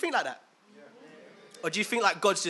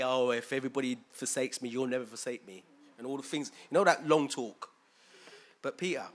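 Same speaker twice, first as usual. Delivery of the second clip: Jesus to Peter; 3 semitones lower than usual. Acted. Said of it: "I'm gonna say it like this".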